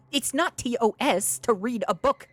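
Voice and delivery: high, loud protest to chat; exasperated shout. Real, not acted. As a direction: shout it in indignant defence. Arguing with chat over the book.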